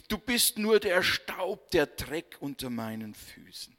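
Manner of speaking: mock contempt, lightly voiced; hostile person. Ill-wisher belittling you, mildly scornful voice. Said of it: "der dir nicht besonders wohlgesonnen ist".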